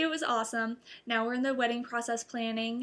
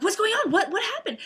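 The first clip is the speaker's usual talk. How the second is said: much higher, louder, laughing questions; frantic relatives; 10 semitones higher, 7 dB louder than usual. Retold or imitated. Relatives running into the room, high laughing alarm. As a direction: rush in wanting to know. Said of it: "they're like".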